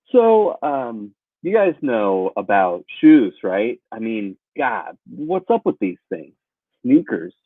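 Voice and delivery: cheesy observational comic, laughing at his own jokes; bad comic. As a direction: play a hack comedian doing weak shoe jokes. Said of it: "come up with some bad stand-up".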